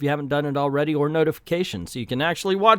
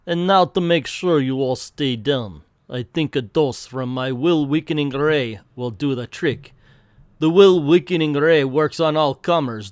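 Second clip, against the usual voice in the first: gloating villain voice. Acted. Villain gloats over heroes.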